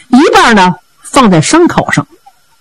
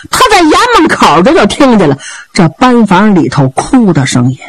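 ordinary delivery

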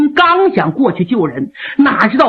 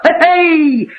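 laugh. Acted. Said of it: "哈哈一乐".

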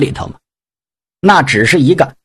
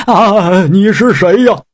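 a startled, alarmed pig demon; 3 semitones higher, slower than usual. Acted. Pig demon startled by the voice in his belly, alarmed. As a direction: blurt it out in fright.

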